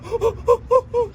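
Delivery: put-on high childlike oh oh, realizing; lightly voiced toddler; child's discovery. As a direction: act the little kid finding the hurt. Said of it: "they finally go".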